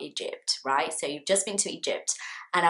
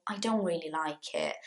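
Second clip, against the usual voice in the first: negative answer; 3 semitones lower, 9 dB quieter than usual. Shown as a demonstration. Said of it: "So you would say".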